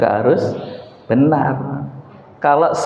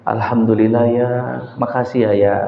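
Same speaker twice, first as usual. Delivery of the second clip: a wife thanking softly, much lower and quieter; grateful wife; 4 semitones lower, 4 dB quieter than usual. Retold or imitated. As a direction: thank him gently and quietly. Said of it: "Iki lho, Bu". (istri berterima kasih dengan lembut)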